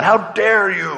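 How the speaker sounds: hammed-up indignation; mock outrage. Passenger to airport security over the wand, mock outraged. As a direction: act the affronted passenger. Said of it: "the people are so mad".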